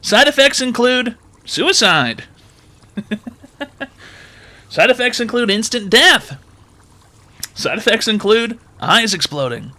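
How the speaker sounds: side effects read in a bright pitch voice; cheerful ad with eerie menace. Pretend. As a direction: fake drug ad disclaimer, chirpy and ominous. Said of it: "Cash App advertisement".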